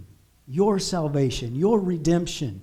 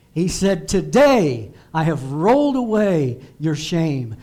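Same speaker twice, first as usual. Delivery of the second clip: preaching at full force; 4 dB louder than usual. Acted. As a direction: thunder it out like a prophet. Preaching the Lord's words forcefully.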